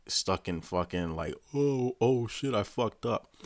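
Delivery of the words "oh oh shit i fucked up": slow, high drawn-out "oh"; mock dawning dismay. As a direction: imitate someone stuck realizing his blunder. Imitates man stuck realizing his blunder.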